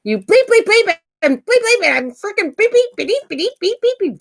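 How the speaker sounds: high, loud censored rant of bleeps; hammed-up bleeped outburst; mock bleeped swearing. Shown as a demonstration. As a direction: spit out the bleeps like a cussing tirade.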